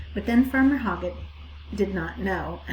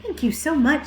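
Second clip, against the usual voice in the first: higher, eager thanks; the pig thanks the sheep, pitched up; grateful piglet; 7 semitones higher, 6 dB louder than usual. A narrator's reading. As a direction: thank them brightly as the little pig.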